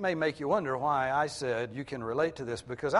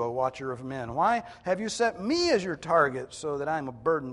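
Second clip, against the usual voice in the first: loud, indignant challenge to God; acted accusing complaint with forceful stresses; serious attitude; 7 dB louder than usual. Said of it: "there's still some serious attitude in what he says".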